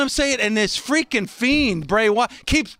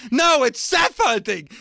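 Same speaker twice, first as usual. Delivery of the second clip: mock argument shout; 3 semitones higher than usual. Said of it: "he'd be like".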